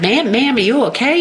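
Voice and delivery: put-on deep Southern accent. Trucker-capped stranger checks on crash victim, deep Southern accent. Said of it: "like, deep Southern accent".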